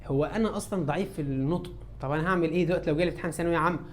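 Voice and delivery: low, soft mock student voice; worried student's question. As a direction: lightly play a pupil quietly admitting weakness. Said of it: "مستر مصطفى، اتفضل يا صديقي".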